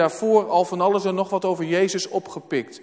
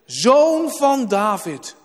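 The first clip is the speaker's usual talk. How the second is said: slow, louder call; 4 semitones higher, 4 dB louder, much slower than usual. Acted. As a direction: proclaim the title out loud. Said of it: "En hij roept het uit".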